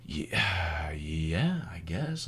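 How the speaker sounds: low, soft, halting agreement; mock reluctant going along; hesitant. Driver warily agreeing with the cop, hesitant.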